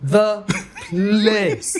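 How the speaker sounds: "The place" split by a long pause; over-articulate "The", wait, then stretched "place"; practising diction. Retold or imitated. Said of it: "And I was like".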